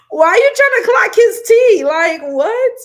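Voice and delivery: high, loud, squealed disbelief; incredulous outburst. Real, not acted. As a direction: cry out in amused disbelief. Laughing disbelief at chat comment.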